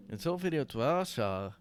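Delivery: loud, high, slow mock Russian accent. Comedian out of examples retrying the joke, loud Russian accent. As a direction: belt it out in a hammy Russian accent. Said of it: "How do you do a Russian accent?".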